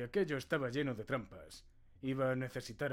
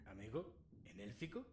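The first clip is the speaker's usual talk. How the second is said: laughing disbelief. Acted. Player's character reacts to the riddle.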